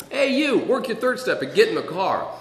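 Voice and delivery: acted-out gruff summons; calling out. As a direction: holler an order at a stranger. Man calls out from car window.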